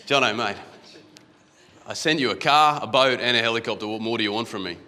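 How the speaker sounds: an Aussie God booming down at a doubter. Retold or imitated. Telling the flood story, God answers Jono in a mock Aussie accent. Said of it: "He's an Aussie, God".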